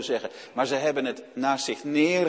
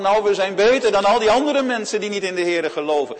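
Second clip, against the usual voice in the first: mock smugness; 4 semitones higher, 5 dB louder, faster than usual. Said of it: "Dan kunnen we niet meer zeggen van".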